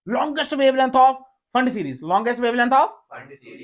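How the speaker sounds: very slow, clearly spaced words; teacher dictating a question slowly; slow dictation. Shown as a demonstration. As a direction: drag it out for note-taking. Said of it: "मैं बोलता हूँ".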